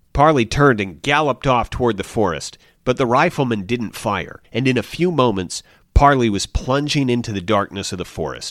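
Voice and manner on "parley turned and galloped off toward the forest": plain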